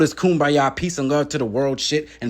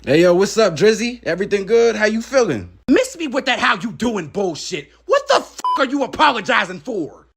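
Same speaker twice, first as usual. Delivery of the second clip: a hint of a higher, cocky rapper voice building to anger; lightly voiced rapper; 6 semitones higher than usual. Plays a rival rapper throughout.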